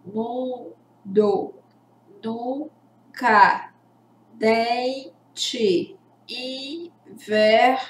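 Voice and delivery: "Mundo, nunca, dente, inverno" split after each nasal first syllable; finger on nose. Shown as a demonstration. Teacher testing nasal sounds with pupils, finger on nose. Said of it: "fala com o dedinho no nariz".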